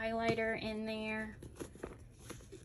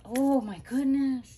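excited gasp; 6 semitones higher, 8 dB louder than usual. Real, not acted. Gasping at the styled planner.

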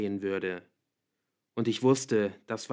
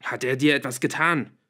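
loud, higher, alarmed demand; panic turning angry; 4 semitones higher, 8 dB louder than usual. A narrator's reading. Father questions daughter through door, panicked and angry. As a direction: demand it with fear and anger mixed. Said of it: "wie sich Wut in die Panik mischte".

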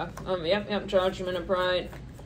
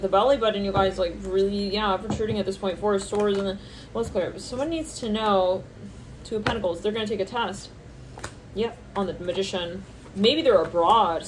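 usual speaking voice

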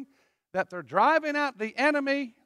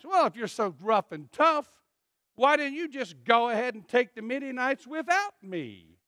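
mock sarcastic retort. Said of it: "that's how your flesh talks".

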